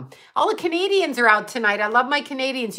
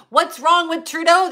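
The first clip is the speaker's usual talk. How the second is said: higher sing-song quote of a troll; mocking the troll; 7 semitones higher, 3 dB louder than usual. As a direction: mimic the troll's question mockingly. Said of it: "This troll says".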